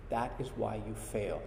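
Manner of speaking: Yoda voice. Retold or imitated. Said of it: "And Yoda replies".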